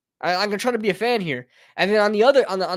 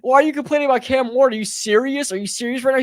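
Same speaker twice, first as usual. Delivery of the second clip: mock outraged fan; 4 semitones higher, faster than usual. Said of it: "everybody's gonna say".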